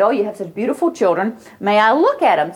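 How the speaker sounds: sweet compliment. Retold or imitated. Speaker charms mother.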